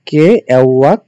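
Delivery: "কে অ্যাওয়াক" said loud and firm; emphatic recap. Shown as a demonstration. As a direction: drive home the first part loudly. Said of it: "মনে রাখবা হচ্ছে". ("কে অ্যাওয়াক" জোর দিয়ে বলা)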